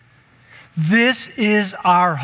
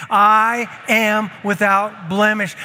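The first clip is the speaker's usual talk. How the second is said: proclaimed; 3 semitones higher, slower than usual. Shown as a demonstration. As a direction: lead them, say it big.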